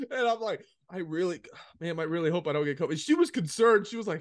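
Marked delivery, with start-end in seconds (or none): 0.9-3.0 mock scared. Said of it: "just to mess with them".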